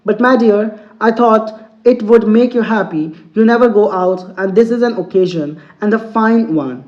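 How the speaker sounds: slow, deliberate English reading; teacher reading a story to students, very slow; slow read-aloud. Acted. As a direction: read each word out slowly for the class. Teacher reads story text aloud.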